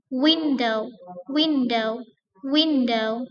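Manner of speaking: Window with WIN stressed. Shown as a demonstration. Teacher drilling noun stress, WIN stressed. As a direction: push WIN each time. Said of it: "stressing on the first syllable".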